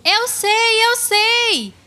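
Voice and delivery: high, excited "I know"; eager pupil's high-pitched cry. Acted. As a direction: burst in with the answer, pitched high. Eager pupil jumps in to answer.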